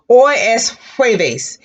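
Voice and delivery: jueves said slowly with an airy H start; slow hoy es jueves, breathy J. Shown as a demonstration. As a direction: push air out on the J of jueves. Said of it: "If you feel the air".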